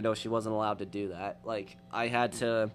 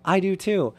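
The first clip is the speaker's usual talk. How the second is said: excited promo voice; 9 semitones higher, 6 dB louder than usual. Retold or imitated. Quoting promo video punchline.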